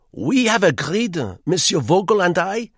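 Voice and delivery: high, loud, fussy Frenchman; eager hotel guest. A narrator's reading. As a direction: press him with busy insistence. Duclos announcing decision.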